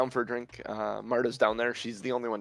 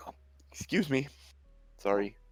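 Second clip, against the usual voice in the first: put-on tipsy, drunk woman's voice, higher pitch; 3 semitones higher than usual. Narrator voices a woman who bumps into a stair railing, drunk woman. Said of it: "this drunk woman who's having a hard time standing".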